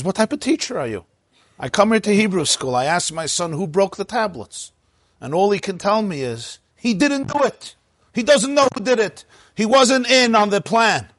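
high-pitched indignant parent, rising to incredulous outrage; furious father. Acted. Angry father confronting his son's teacher, high-pitched indignation. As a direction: rant in a high, exasperated voice. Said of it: "the father is furious".

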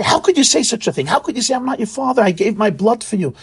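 hurt, rising protest from a father; mildly hurt outburst, like a father stung by his son's words; upset father. Retold or imitated. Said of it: "his father is so hurt, his father is so upset".

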